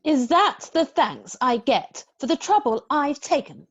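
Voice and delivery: mock cross. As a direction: fake indignation to please the boy. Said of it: "Be cross, Mary Poppins".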